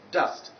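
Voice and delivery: "dust" with an open "uh", like "dahst"; correct vowel ten. Shown as a demonstration. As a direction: say "dust" unrounded.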